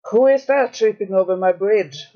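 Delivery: lightly voiced troll roar. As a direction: growl it like a troll. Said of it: "roared the troll".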